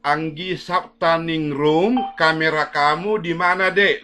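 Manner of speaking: slow, loud drawn-out call; calling out loudly. Real, not acted. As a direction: call the name slowly across the room. Teacher calls absent student loudly. (memanggil keras dan pelan)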